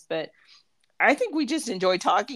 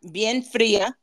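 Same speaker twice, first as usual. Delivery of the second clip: street vendor call; slower than usual. Shown as a demonstration. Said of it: "you gotta talk like a street vendor".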